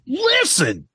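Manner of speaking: high squeaky catchphrase; Tim impression. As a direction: pitch the catchphrase way up. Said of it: "this stupid fucking Sick and Stanley".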